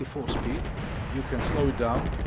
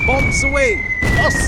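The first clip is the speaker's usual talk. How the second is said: excited shout; 12 semitones higher, 15 dB louder than usual. Pretend. Launching bombers in game.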